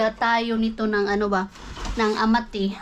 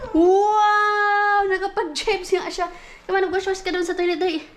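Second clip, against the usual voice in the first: high, bright cheering for the little one; excited praise; 6 semitones higher, slower than usual. Real, not acted. Mom cheering her toddler for using the potty, excited and high.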